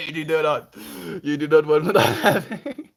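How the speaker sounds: emphatic no. Retold or imitated. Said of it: "And I'm like".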